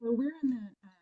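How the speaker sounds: faint, hard to hear; quiet mic. Real, not acted. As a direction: far from the microphone. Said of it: "you're really quiet".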